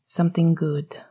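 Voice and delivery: speaking into a pillow; muffled by pillows. Acted. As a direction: talk with your face in pillows. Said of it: "muffled slightly by pillows".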